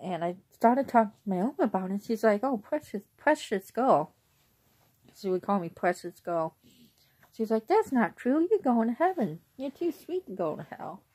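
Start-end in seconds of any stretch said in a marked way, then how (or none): 2.4-4.1 a lightly voiced, higher, doting grandma; fond grandmother. Grandmother comforting her granddaughter, lightly voiced and higher. 7.7-11.0 a lightly voiced, higher, doting grandma; fond grandmother. Grandmother comforting her granddaughter, lightly voiced and higher.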